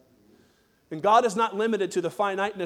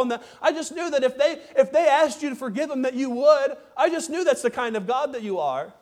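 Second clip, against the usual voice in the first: higher, indignant Jonah complaining to God; accusing Jonah; 5 semitones higher than usual. Acted. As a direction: point the finger and protest.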